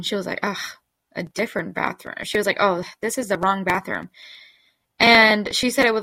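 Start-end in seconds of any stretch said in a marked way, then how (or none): 0.4-2.2 mildly disgusted imitation; nasty tone. Lady repeating her complaint, imitated in a mildly nasty tone. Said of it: "more of a nasty tone". 2.6-4.1 lightly imitated snide remark; understated mockery, kept near your own pitch; mocking tone. Lady who doesn't want them there, imitated as lightly mocking. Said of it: "a mocking tone".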